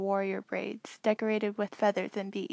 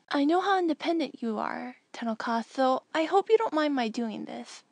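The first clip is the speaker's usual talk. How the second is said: lightly voiced earnest boy, a touch higher; a boy explaining kindly, slightly raised pitch; young Anakin; 4 semitones higher than usual. Anakin's hologram message to Tenel Ka, lightly voiced earnest boy.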